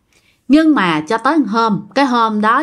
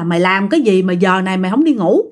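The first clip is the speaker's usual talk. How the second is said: scolding grandma; 2 semitones higher than usual. Retold or imitated. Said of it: "bà nội mới la".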